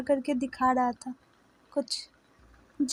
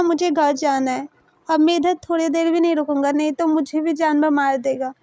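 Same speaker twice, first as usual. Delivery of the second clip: louder, urgent and frightened; panicked insistence; 4 dB louder than usual. Acted. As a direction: insist you're leaving, scared of the animal. Scared Taeyang insists on leaving. (घबराकर ज़ोर से ज़िद करते हुए)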